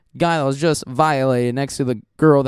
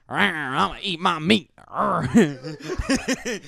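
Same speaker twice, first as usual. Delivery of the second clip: put-on jaguar girl; 4 dB quieter, much slower than usual. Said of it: "like a jaguar".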